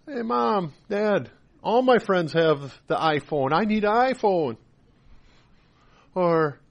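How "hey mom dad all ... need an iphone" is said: lightly voiced pleading kid; a hint of a whiny child asking; childish attitude. Child begging parents for an iPhone, lightly acted childish attitude. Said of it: "a childish attitude".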